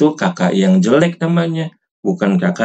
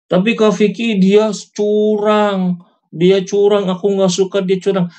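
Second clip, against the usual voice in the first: put-on high-pitched kid's protest; complaining child; 9 semitones higher than usual. Child complaining to Kak Vicky about a cheat, high-voiced protest. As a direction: whine it high like a child tattling.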